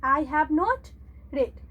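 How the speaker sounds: "read" said as red, like the colour; teacher correcting "read" to red. Shown as a demonstration. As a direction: say "read" as red, past tense. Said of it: "इसको रेड पढ़ेंगे".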